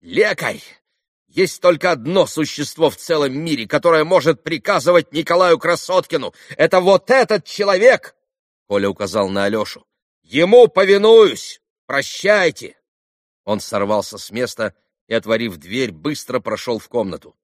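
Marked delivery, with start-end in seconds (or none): 0.0-8.1 proud declaration. A narrator's reading. Boy proudly answers doctor. 10.2-12.8 proud loud farewell. A narrator's reading. Boy storms out proudly.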